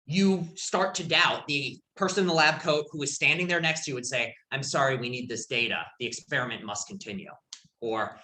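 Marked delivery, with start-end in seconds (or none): 4.5-7.3 lower, softer official refusal; impassive experimenter. Retold or imitated. Lecturer quotes the lab coat experimenter to a doubter, mildly impassive. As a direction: lightly voice an unmoved authority figure.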